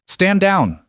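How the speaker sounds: through gritted teeth. A narrator's reading. Agent orders his Russian hired gun, through gritted teeth. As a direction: bite off the command, barely holding back anger. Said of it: "said through gritted teeth".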